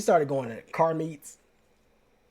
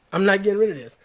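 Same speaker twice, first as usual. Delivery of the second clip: louder, higher insistence on "rid"; emphatic repeat; 5 semitones higher, 6 dB louder, faster than usual. Real, not acted. Vowing to viewers he will keep the jacket, louder and higher. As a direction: drive it home, hitting "rid" louder and higher.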